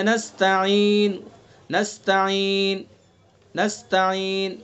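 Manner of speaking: نستعین ended silent with lips rounded toward pesh; slow نستعین, lips pointing to the lost vowel; waqf bil-ishmam. Shown as a demonstration. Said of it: "ہونٹوں سے اشارہ".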